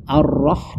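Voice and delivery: "Ar-Rah" with a heavy, rounded ra; dark rolled R in "Ar-Rah"; thick ra. Shown as a demonstration. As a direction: say "Ar-Rah" with a full, o-coloured r sound. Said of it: "padahal seharusnya roh itu ditebalkan".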